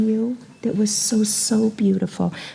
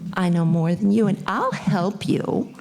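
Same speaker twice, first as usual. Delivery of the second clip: condescending help. Retold or imitated. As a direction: talk down while offering help. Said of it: "But it's not that kind of".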